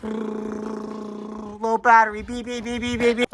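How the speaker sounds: slow robotic warning voice. Pretend. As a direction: sound like a dying machine. Pretending to be a drone.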